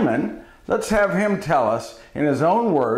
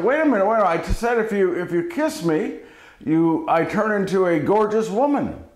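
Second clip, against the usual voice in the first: higher-pitched, insistent frog; high-voiced objection, lightly acted; protesting frog; 5 semitones higher, faster than usual. Frog protests being pocketed.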